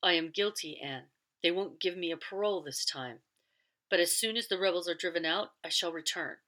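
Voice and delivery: a hint of a commanding gentleman, steady and insistent; stern master. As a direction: give orders as the master before leaving. Lockton voiced in reading.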